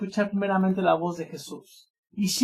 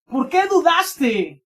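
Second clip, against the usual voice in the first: drawn-out questioning rebuke, higher; reproche; 5 semitones higher, 3 dB louder, much slower than usual. Acted. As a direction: slowly reproach a doubter. Jesús reprende a Pedro. (reproche lento y elevado)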